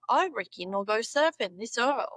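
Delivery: Aussie practice sentence; Australian accent. Shown as a demonstration.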